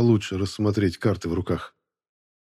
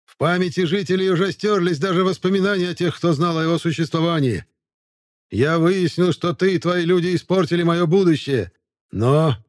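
shrill, piping voice, much higher; high squeaky voice; 9 semitones higher, 4 dB louder than usual. Acted. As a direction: squeak it out like a eunuch. Sermet's voice again.

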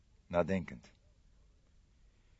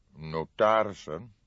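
thoughtful; 4 dB louder, slower than usual. Acted. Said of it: "formuleerde hij bedachtzaam".

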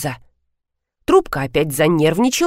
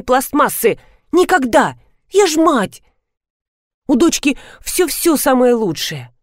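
outraged mother; 3 semitones higher than usual. Acted. Outraged mother refuses cheap doll.

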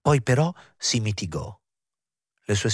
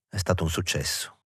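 mechanical reply; 2 semitones lower, 4 dB quieter than usual. A narrator's reading. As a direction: say it absently, falling on "stato". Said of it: "Lui rispose meccanicamente".

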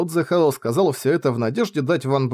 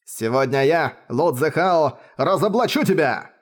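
growled. Acted. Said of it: "прорычал он".

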